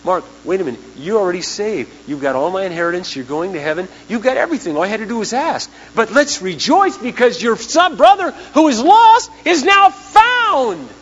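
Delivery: gentle, then rising to a loud joyful cry; father calming son, building to joy; loving father. Retold or imitated. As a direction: reassure the son, then rejoice. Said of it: "the father lovingly turns to the son".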